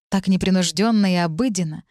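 ordinary delivery, nothing marked

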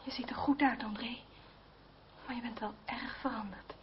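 hushed whisper, close and private; soft unvoiced whisper to an old friend. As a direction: whisper it so no one else hears. Intimate aside to André.

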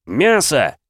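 loud, high roared answer; roaring yell. Acted. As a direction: roar it at the crowd. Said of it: "заорал я".

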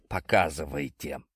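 low, firm order to show; stern command. A narrator's reading. Hero sternly orders the marketers to show it. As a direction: demand it sternly, arms crossed. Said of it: "строго произнёс я".

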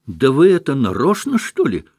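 the hostess losing patience with the room, angry; angry outburst. A narrator's reading. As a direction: accuse them sharply. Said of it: "крикнула в гневе мадам Вергинская".

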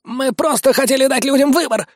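high, frightened pleading; terrified. Acted. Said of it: "затрясся от ужаса". (испуганное оправдание высоким голосом)

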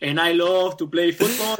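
mock heavy Spanish accent in English; thick foreign accent. Speaker imitating a newcomer to the States, thick Spanish accent. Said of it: "you speak literally like this".

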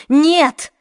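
high, loud cry of denial; breaking into a shout. A narrator's reading. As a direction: voice cracks into a shout. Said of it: "Голос Марион сорвался на крик".

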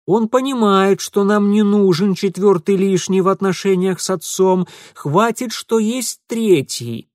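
loud, high pointed remark; pointed hint. Acted. Mitya pointedly hinting at Ingvar. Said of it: "процедил Митя".

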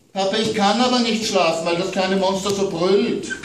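put-on child's voice worried about monsters at bedtime; little girl. A narrator's reading. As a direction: play the small daughter scared of monsters. Child Amanda calls.

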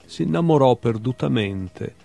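measured literary recital with lifted titles; poetry reading. Acted. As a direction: read short animal poems, letting each ending drop away. Reads own poems aloud. (lettura poetica recitata)

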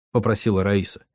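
ordinary delivery

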